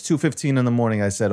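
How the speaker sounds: ordinary talk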